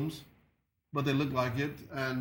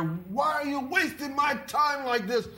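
retold angry yell; 9 semitones higher than usual. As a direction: bellow it like the furious judge. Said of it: "he just started yelling at her".

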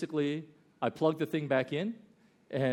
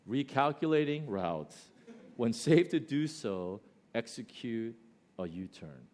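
gracious GPS voice. Retold or imitated. GPS to returning driver without blame, measured and simple. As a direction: lightly imitate an unreproachful navigation voice. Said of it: "this is what it said".

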